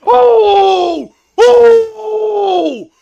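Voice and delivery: screams at a big dunk; explosive hype yell; excited scream. Real, not acted. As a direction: yell out in pure shock.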